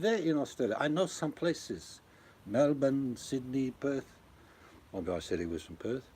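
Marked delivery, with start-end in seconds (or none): 0.0-4.1 raised, slow put-on questioning; mock local greeter. Quizzing Australian tourists on home towns, raised mock curiosity. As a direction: play the curious local, drawing out the city names.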